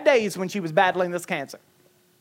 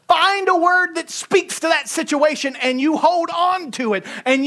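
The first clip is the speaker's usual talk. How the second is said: higher, building preacher's exhortation; preaching; 7 semitones higher, 4 dB louder than usual. Real, not acted. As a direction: drive it home to the congregation. Preaching at rising force.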